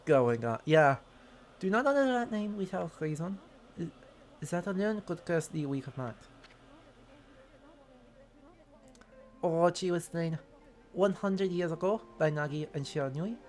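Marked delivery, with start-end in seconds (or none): 1.6-13.4 hammed-up bad French accent as a swordsman; worst French accent. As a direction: overdo the French accent for laughs. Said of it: "I am doing the worst accent humanly possible".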